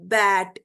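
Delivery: bat as one low, firm beat; single syllable. Shown as a demonstration. Teacher demonstrating a one-syllable word, bat said as one beat. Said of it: "if a word sounds as a single".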